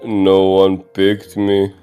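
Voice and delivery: ordinary talk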